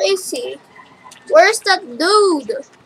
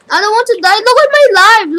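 higher, louder alarm; panicked; 3 semitones higher, 5 dB louder, faster than usual. Real, not acted. Player losing a life in the game, panicked. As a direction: blurt it out in rising alarm.

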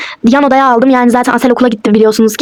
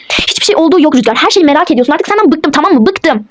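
mildly angry dismissal; fed up; 2 semitones higher than usual. Acted. Wife dismissing worried husband, fed up. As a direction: end on short, exasperated finality.

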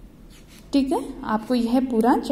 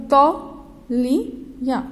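"तौलिया" stretched slowly, each syllable drawn out; slow model reading; much slower than usual. Shown as a demonstration. Teacher modelling "तौलिया" for children, slowly stretched. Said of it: "तौ के ऊपर हमने औ की मात्रा लगाई तो क्या बन गया".

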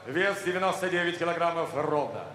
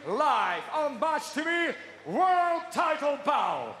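drawn-out announcer shout; 4 semitones higher, much slower than usual. Acted. Announcer calling title bout.

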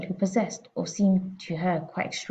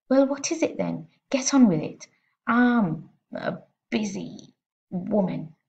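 impatient bark; 3 semitones higher, 3 dB louder, slower than usual. Acted. Impatient headmistress.

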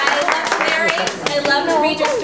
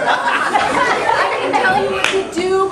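bossy mom; 3 semitones higher, 6 dB louder, slower than usual. Pretend.

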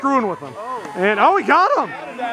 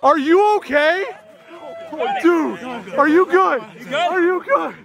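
raised-pitch, pressing questions; urgent checking; 5 semitones higher than usual. Real, not acted. Checking whether teammate is okay, urgent and high. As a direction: fire questions at a dazed friend. Checking on player after big catch.

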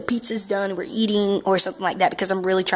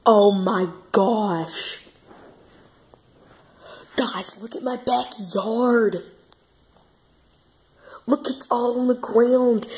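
amazed; 3 semitones higher, much slower than usual. Real, not acted. Storm damage seen in backyard.

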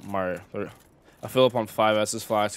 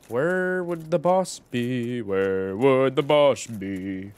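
drawn out; much slower than usual. Real, not acted. Singsong musing while searching.

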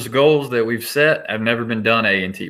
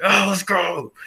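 higher-pitched pumped cheer, retold; 9 semitones higher, slower than usual. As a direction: imitate a fired-up coach running in to celebrate. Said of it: "I'm pumped. I'm, I'm like".

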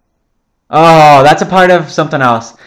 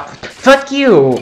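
angry yell; 11 semitones higher than usual. Real, not acted. Hit by skeleton in game.

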